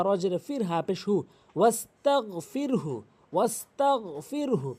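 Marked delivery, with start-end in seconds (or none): 1.6-4.7 ওয়াস্তাগফিরহু slowly, syllable by syllable; model pronunciation. Shown as a demonstration. Teacher models the word for learners, slow pronunciation.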